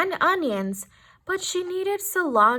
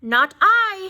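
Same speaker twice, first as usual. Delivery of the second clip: hissed; 5 semitones higher, 7 dB louder than usual. A narrator's reading. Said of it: "hissed Snake".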